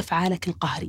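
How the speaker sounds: soft, low whisper under the breath.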